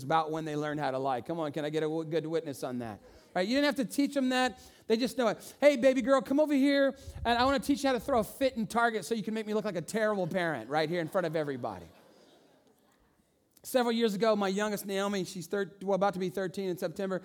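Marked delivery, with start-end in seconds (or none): 5.6-11.8 a mock loving parent luring the child in; sugary parent coaxing. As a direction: coax the child like a doting parent, brisk. Parent coaxing kid to misbehave.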